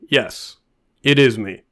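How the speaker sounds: unhurried, even, deadpan confirmation; very calm. Pretend. Man calmly identifying his own body at morgue, very calm. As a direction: confirm it calmly, with a pause after yes. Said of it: "You can very calmly say".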